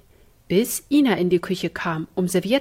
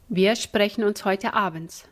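stern. Acted. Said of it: "sagte sie streng".

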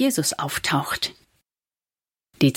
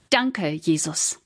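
heartfelt; slower than usual. A narrator's reading. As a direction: give thanks gently from the heart, taking your time. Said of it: "sagte aus tiefstem Herzen".

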